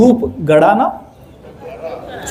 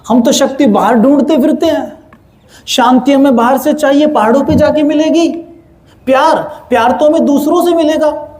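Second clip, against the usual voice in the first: raised, sarcastic mock surprise; mock astonishment; 5 semitones higher than usual. Preacher mocking listeners' doubt, sarcastic mock surprise. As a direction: play the surprised doubter, ironically. Mocking audience's mistaken belief.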